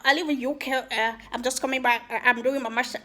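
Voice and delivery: a lightly put-on British-sounding accent; mock posh returnee from the UK; fake UK accent. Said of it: "you don't have the accent".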